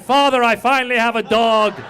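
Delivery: loud, high, solemn address to the sky; hammed-up heroic declaration; proud call to father. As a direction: proclaim it to your dead dad. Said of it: "I talk to my dad".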